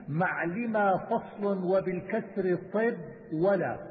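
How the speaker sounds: slow, measured metrical recitation; didactic verse recitation. Acted. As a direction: recite the memorised verse slowly, drawing out syllables. Recites didactic verse, then explains. (إلقاء منظومة علمية ببطء وعلى الوزن)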